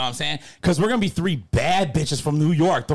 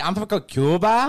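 mock Cuban accent; 2 semitones higher, slower than usual. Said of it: "That's what you say".

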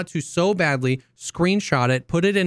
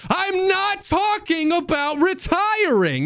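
high, slow strained protest; exasperated retort; slower than usual. Retold or imitated. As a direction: drag it out high and fed up.

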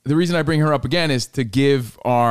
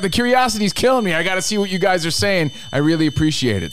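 put-on higher, gushing girl voice; imitating excited girl; 7 semitones higher than usual. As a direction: play her eager curiosity. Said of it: "She's like".

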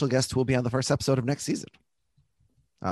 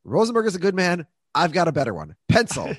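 Tessler line quote; 4 semitones higher than usual. Retold or imitated. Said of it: "I love this line from Tessler".

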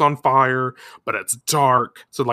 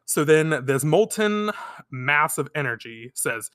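normal talking voice

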